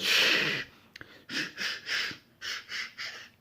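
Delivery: whispered shushes fading to almost nothing; repeated whispered shushing. Acted. Bernie shushing Todd into silence, fading whispers.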